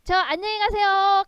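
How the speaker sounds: high, loud ceremonial farewell; send-off call. Acted. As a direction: call goodbye out to every direction. 사방으로 귀신을 보내는 인사. (사방에 높고 크게 외치듯)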